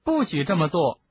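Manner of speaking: high, rattled reprimand; shaken scolding. A narrator's reading. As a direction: scold while still startled. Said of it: "赫敏惊魂未定地对双胞胎说".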